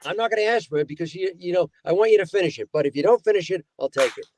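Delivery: lightly voiced evasive mooch; quick refusal easing into a hint; Paul Reiser. Diner pal still angles for the sandwich, lightly imitated. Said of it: "Paul Reiser".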